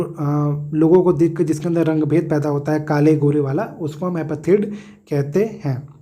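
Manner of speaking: usual speaking voice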